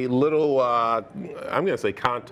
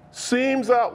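Ace Ventura quote; 9 semitones higher than usual. Retold or imitated. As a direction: quote it like the movie line. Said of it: "it's from Ace Ventura".

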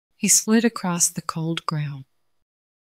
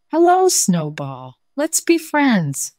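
hen voice; 5 semitones higher, 3 dB louder, slower than usual. Acted. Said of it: "The hen said".

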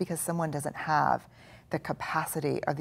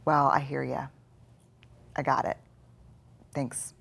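gently thanking the inner voice; calm reassuring reply; 2 semitones lower than usual. Shown as a demonstration. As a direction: settle the critic gently. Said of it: "And you say".

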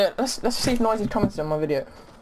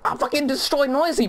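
excited cheer; 6 semitones higher than usual. Real, not acted. Celebrating another kill.

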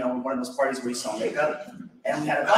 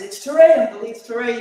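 loud and clear; 8 semitones higher, 7 dB louder than usual. Retold or imitated. Reminding forgetful uncle of his name.

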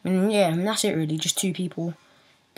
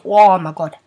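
whispered gasp; 8 dB louder, slower than usual. Real, not acted. Mouth burning from chili.

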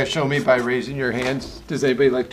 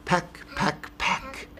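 softly whispered peck sounds; hushed storyteller pecking; 5 semitones higher, 5 dB quieter, much slower than usual. Acted. Reading picture book to children.

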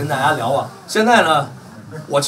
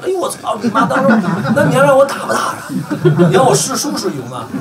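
1 outraged laughing; 7 semitones higher, 4 dB louder than usual. Real, not acted. Outraged at rival's trap.

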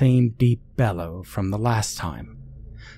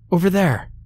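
higher-pitched call of alarm; character calling out a warning, pitched up; mild narrated shout; 9 semitones higher, 3 dB louder than usual. A narrator's reading. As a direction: call it out high, without a full yell. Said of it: "shouted Angie".

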